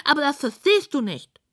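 high, snooty pig voice; high piggy disdain; dismissive pig. A narrator's reading.

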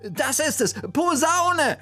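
high, fumbling voice groping for the word; flustered searching. Acted. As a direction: stammer and self-correct until it clicks. Bertha stumbling for the word.

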